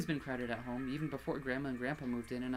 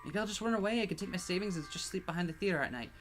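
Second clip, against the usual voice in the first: raised, higher plea through tears; crying out; 5 semitones higher, 3 dB louder than usual. Acted. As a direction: cry it out in despair. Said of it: "she cried out".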